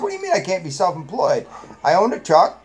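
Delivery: mock-indignant self-defense; indignant retort. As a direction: argue your case to the principal, listing proof. Acted-out argument with the principal.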